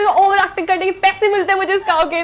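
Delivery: high laughing mock shout; retold yell. Snapping back at Rohit about overacting, laughing shout. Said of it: "और मैं चिल्ला रही हूँ".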